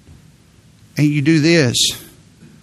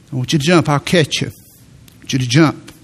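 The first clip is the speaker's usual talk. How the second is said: gentle coaxing, slowing at the end; lightly voiced father coaxing his son to leap. Father on the lawn coaxing his son to jump, gently coaxing. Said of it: "He began to coax him".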